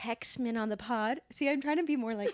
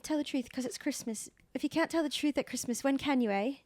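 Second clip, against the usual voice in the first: badly faked British accent, pitched a bit up; lightly put-on, unconvincing British accent; 3 semitones higher than usual. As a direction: attempt a film quote in a bad British accent. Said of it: "Bad accent".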